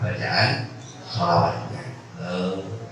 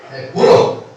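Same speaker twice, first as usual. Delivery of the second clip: defiant threat; 4 dB louder than usual. Retold or imitated. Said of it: "nggak terima".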